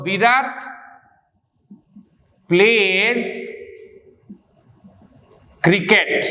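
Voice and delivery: slow, with long pauses between words; word-by-word dictation. Real, not acted. Teacher writing out an example for students, word-by-word dictation. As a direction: dictate it one word at a time.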